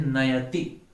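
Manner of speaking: नयति with a full अ on य; correct pronunciation. Shown as a demonstration. Teacher contrasts the students' mistake, carefully. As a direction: keep the अ in य when saying नयति. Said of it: "क्योंकि य में अ है".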